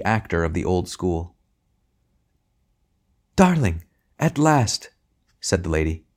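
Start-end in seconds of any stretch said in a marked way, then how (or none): 3.4-4.9 grand tragic wailing. Acted. Tragedian's theatrical greeting.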